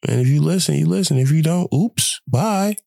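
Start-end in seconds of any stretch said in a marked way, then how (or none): 1.7-2.7 playful brush-off. Real, not acted. Brushing off listeners who leave.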